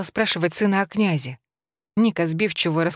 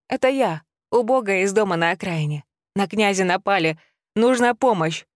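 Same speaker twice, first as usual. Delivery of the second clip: urgent, raised pleading; desperate plea; 3 semitones higher than usual. Acted. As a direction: beg for help in a panic. Widow begging neighbour for help. (отчаянная мольба)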